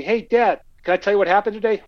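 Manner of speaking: put-on high, quick little-kid voice; eager kid. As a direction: play the child excited to tell dad. Kid asking dad onstage.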